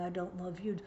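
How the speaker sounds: hushed whisper of a hurtful line. Shown as a demonstration. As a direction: breathe it as a warning example. Hurtful phrase, shown as warning.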